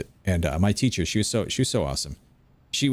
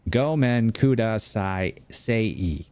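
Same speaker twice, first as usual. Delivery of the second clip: put-on slow Southern-accented Japanese; much slower than usual. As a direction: draw out every vowel like a Southern beginner. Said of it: "in a southern accent".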